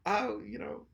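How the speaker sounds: put-on blended Australian and New Zealand accent. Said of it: "You do a really good Austra".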